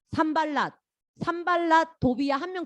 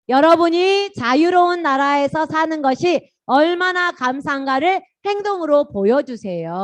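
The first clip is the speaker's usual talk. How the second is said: slow, loud, high chanted verse; loud group recitation; 5 semitones higher, 9 dB louder, slower than usual. Shown as a demonstration. Pastor leading children reciting a Bible verse, slow and loud. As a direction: recite it word by word like a class reading aloud together. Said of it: "같이 읽는다".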